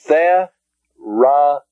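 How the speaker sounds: therapuo drawn out slowly; slow Greek word. Shown as a demonstration. Teacher modeling the example word for students. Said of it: "The last word then for an example".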